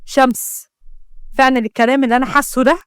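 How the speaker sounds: quick question with understated doubt; suspicious. Acted. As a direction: probe her with mild suspicion. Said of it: "وقال بشك".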